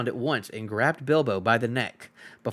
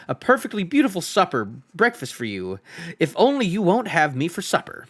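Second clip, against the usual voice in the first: lightly voiced hobbit begging; pleading hobbit; 3 semitones higher than usual. Hobbit pleads with the trolls, a hint of desperate politeness. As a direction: beg the trolls politely not to be cooked.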